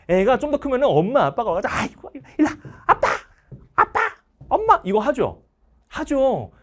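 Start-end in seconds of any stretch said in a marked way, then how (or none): 1.7-4.8 coaxing parent. Retold or imitated. Parents calling the child over.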